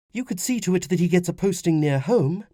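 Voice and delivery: high woman's voice, urging; pleading wife. Acted. Wife asks husband about son's posting, pleading. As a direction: press your husband for a favour.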